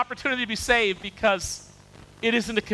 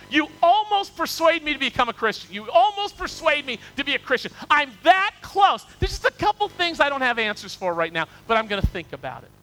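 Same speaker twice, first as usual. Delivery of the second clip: higher, louder, almost persuaded; King Agrippa answering Paul, higher and louder; torn king; 6 semitones higher, 3 dB louder than usual. Acted. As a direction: plead that you are so close.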